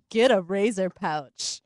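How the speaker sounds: seductive voice. Acted. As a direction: drag it out, half laughing, slow. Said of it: "It sounded like I was gonna kill somebody".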